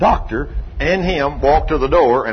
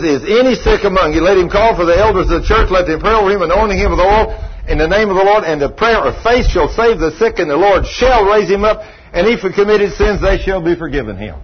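forceful, rolling recitation of a verse; scripture reading; 2 semitones higher than usual. Real, not acted. Preacher quotes his Bible's healing promise, forceful scripture reading. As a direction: proclaim the verse as a firm promise.

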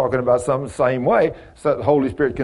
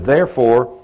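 slow, measured Bible reading; preacher reading a verse aloud to the study group, slow and solemn; scripture reading; slower than usual. Acted. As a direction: read the verse slowly and solemnly. Reads scripture.

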